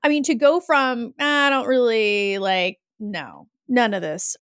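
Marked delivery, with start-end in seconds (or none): 1.2-4.4 low, reluctant brush-off; dismissive sceptic. Acted. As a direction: drop low and dismiss it, acting the doubter. Host voices a former sceptic.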